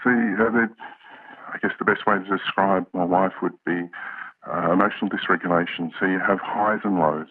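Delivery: electronically altered voice; disguised deep voice. Real, not acted. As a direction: voice masked for privacy. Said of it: "We've altered his voice".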